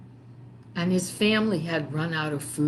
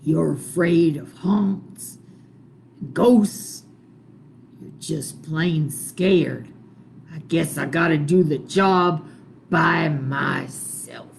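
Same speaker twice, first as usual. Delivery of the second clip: scornful boss; 6 dB louder than usual. Acted. One Eye scorns his men.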